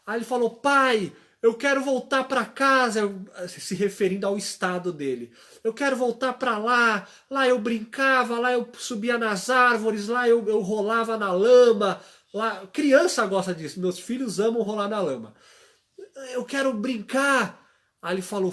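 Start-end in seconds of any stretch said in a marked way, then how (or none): 0.5-12.0 put-on child pleading. Son begs to go home. 16.3-17.6 put-on child whine. Son whining to play.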